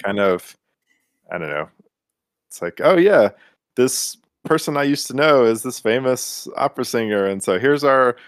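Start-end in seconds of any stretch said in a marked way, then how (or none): 2.8-8.1 perky, higher mock schemer; mock scheming voice. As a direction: play the eager opportunist lightly. Imitating a scheming character.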